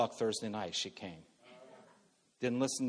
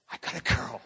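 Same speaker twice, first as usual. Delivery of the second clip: re-enacted excited cry, put-on voice; mock breathless news to everybody, lightly acted; excited announcement; 4 semitones higher than usual. New father running down the hall to tell everybody, excited announcement. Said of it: "being so excited".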